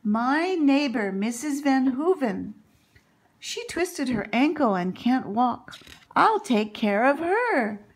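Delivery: shouting. Acted. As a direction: call out the big idea, thrilled.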